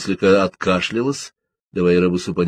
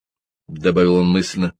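ordinary delivery, nothing marked

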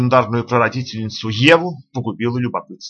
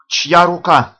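eager; 5 semitones higher, 6 dB louder, much slower than usual. A narrator's reading. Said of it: "оживившись".

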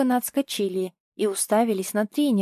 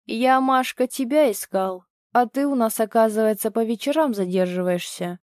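weaselly. Acted. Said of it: "заюлил Толик".

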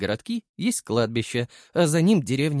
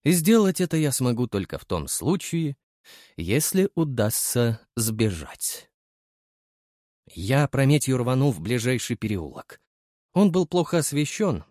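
ordinary delivery, nothing marked

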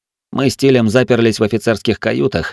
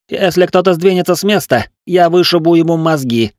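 cold threat; 8 semitones higher, 3 dB louder than usual. A narrator's reading. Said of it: "холодно сказал Тиль".

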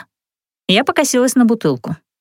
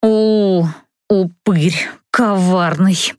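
angry hiss; 2 semitones lower, much slower than usual. Acted. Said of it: "прошипела я со злостью".

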